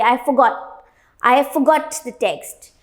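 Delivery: "forgot" as fuh-got; correct pronunciation demo. Shown as a demonstration. Teacher applying the same to the second form, correct pronunciation demo. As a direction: shorten the start of "forgot" to "fuh". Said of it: "उसको भी हम ऐसे बोलेंगे".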